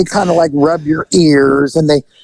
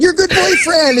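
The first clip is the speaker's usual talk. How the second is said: fond masseuse. Retold or imitated. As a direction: play her remembering him fondly. Masseuse chasing him.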